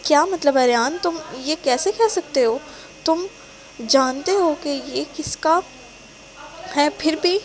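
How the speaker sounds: stunned and hurt; shocked. Acted. Girlfriend shocked at his denial, disbelieving. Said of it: "وہ حیران ہوتے کہتی ہے".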